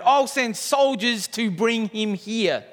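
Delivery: lightly voiced furious king; a king vowing to hunt the prophet down, stern; angry king. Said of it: "the king ordered".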